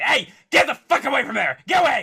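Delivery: play-acted mild high shout. Retelling what Carol shouted at teens by the fence: imitating someone yelling. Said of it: "she just yelled a little".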